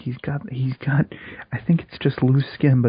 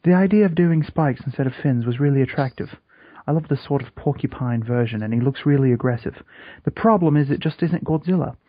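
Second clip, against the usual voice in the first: British accent; 4 semitones higher than usual. Shown as a demonstration. Podcaster reading a designer's statement to co-host, British accent. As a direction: read it in a light British accent. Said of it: "I was just doing a British accent".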